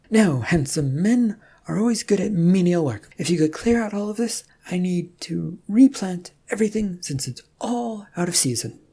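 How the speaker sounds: a spoiled princess handing out chores; imperious princess. Acted. Rum ordering the handsome knight into garden work, imperious.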